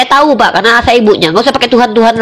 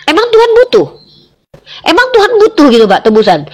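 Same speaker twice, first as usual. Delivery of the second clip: high-pitched, incredulous questioning; incredulous challenge; 10 semitones higher than usual. Real, not acted. Woman challenging a man on God needing ransom, incredulous. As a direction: fire back in disbelief, voice way up.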